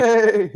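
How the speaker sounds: whinny it like a horse in the room; mock horse neigh. Shown as a demonstration. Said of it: "oh, I got a horse in here".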